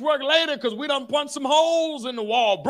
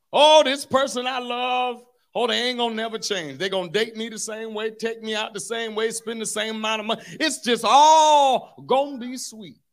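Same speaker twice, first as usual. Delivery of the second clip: dreamy newlywed. Retold or imitated. Naive newlywed voiced.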